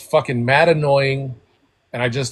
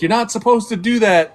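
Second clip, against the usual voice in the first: higher, louder angry yell; retold yell; 9 semitones higher, 7 dB louder than usual. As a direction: shout it out the car window. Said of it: "screaming that".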